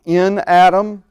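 slow, deliberate weight on "In"; stress on IN. Real, not acted. Preacher repeating his underlined note, "In" stressed slowly. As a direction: underline "In" with the voice, unhurried. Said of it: "In my notes, it's capital I, capital N, double underline".

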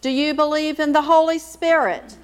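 normal talking voice

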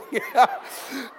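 breathy choked-up laugh; a laugh close to tears; emotional laugh. Real, not acted. New father overcome by his daughter's photo, laughing.

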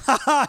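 imitated gleeful laugh, pitched high; mock laugh. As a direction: act out a buddy's taunting laugh. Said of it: "he starts laughing".

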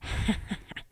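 soft, breathy mock-evil chuckle; evil laugh. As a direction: laugh low-key like a villain, acted. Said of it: "as he laughs evil".

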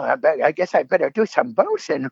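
lightly voiced cartoon mouse, still chatting; Monterey Jack voice. Shown as a demonstration. Offering the fan another voice, lightly in character. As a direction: drift halfway into the mouse voice. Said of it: "Will you do the voice?".

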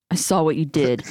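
creepy voice through gritted teeth; creepy voice, spoken through clenched teeth. Acted. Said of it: "I wanna hear your creepy voice".

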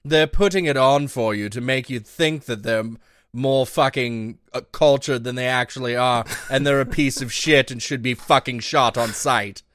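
lightly put-on mid-Atlantic accent; a hint of affected mid-Atlantic diction. Shown as a demonstration. Podcaster explaining the acquired accent, lightly in mid-Atlantic accent. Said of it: "who talks like this".

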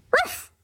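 high yelping dog bark. Retold or imitated. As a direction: yap like a small dog. Dog Coco barking inside.

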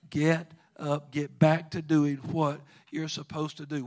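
commanding call. Retold or imitated. The Lord commanding the fallen.

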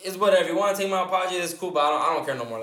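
retold huffy brush-off, starting high and loud; mildly indignant retelling that settles by the end; offended. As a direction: replay an offended dismissal, easing down in pitch. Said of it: "I got offended".

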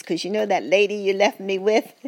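mild imitation of husband's grievance; confiding husband. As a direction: tell on the lady in a hushed-up complaint. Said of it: "He says".

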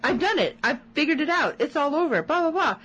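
hammed-up triumphant giddiness; mock giddy. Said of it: "like, almost giddy".

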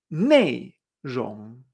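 low "Neirong", dropping first and climbing at the end; falling then rising tones. Shown as a demonstration. Teacher modelling content, "Neirong" down then up. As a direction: fall on "Nei", rise through "rong". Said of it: "todas estas palabras".

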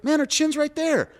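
imitating the fighter. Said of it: "I was like".

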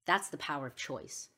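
deliberate speech with long pauses between statements; solemn moral lesson. Acted. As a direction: deliver it like a closing message, letting each point land. Delivers the moral of the story.

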